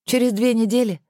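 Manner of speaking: high, outraged question; shocked at two weeks, up high; indignant. A narrator's reading. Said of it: "возмутилась Александра". (возмущённо, высоким голосом)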